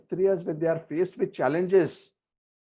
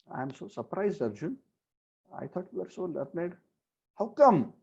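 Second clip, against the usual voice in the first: surprised; 3 semitones higher, 4 dB quieter than usual. Retold or imitated. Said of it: "he's hinting that".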